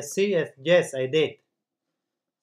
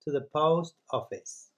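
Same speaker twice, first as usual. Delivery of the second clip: slow model sentence; much slower than usual. Shown as a demonstration. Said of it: "por ejemplo".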